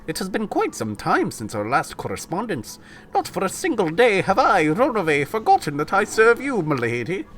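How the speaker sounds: mock French butler. Butler greets his lady in a botched French voice. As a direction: ham up an elegant servant. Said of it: "That's not French".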